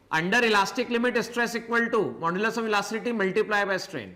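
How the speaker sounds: slow, word by word; slow dictation. Shown as a demonstration. Teacher dictating the law to students, slowly. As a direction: recite the formula slowly so students can write. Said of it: "मैंने पहले भी कहा था".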